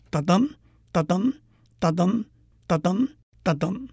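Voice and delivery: 哒噔 chanted as five even pairs, weak 哒 then strong 噔; light-heavy beat. Shown as a demonstration. Teacher demonstrating sonnet meter, light-heavy 哒噔 beats. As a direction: tap out each 哒噔 separately, second syllable heavier. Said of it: "轻重的音部".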